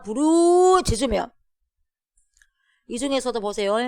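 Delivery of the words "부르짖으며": high, drawn-out cry. Acted. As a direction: call it out long and high. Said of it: "여호와께서 뭡니까?". (높고 길게 부르짖듯)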